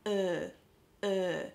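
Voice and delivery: "uh" placed forward, lips pushed out; forward sound. Shown as a demonstration. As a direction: push a steady "uh" to the front of the mouth. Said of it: "this is all forward".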